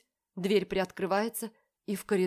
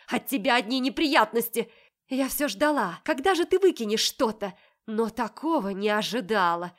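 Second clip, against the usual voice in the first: higher, louder tirade; furious; 3 semitones higher, 7 dB louder than usual. A narrator's reading. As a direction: pour out years of resentment. Sister rails at heroine.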